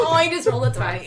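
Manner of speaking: laughing dismay. Real, not acted. Player bemoaning a wasted natural twenty, laughing dismay. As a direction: groan it through a laugh.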